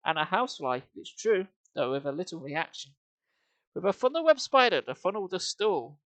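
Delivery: sing-song rhythmic verse reading with a heavy beat; poem recitation. Acted. Streamer reads a bawdy song to chat as rhythmic verse. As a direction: recite the verse with a bouncing meter, fighting back giggles.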